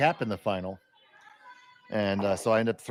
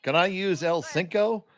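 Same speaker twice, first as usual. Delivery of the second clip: mock Spanglish accent; 7 semitones higher, 4 dB louder than usual. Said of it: "the classic way a lot of Americans try to speak Spanglish".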